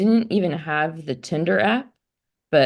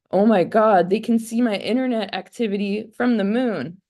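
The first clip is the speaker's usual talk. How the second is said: mock shocked; 4 semitones higher than usual. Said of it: "I'm like".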